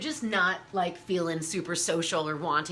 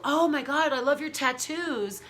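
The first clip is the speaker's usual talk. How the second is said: mock gushing fan, higher and louder; gushing admirer; 5 semitones higher, 3 dB louder than usual. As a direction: imitate an excited stranger gushing. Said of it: "people would come up to me and go".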